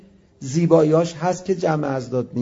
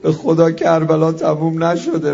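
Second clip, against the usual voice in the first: fervent appeal; 5 dB louder than usual. Acted. Sermon closing appeal.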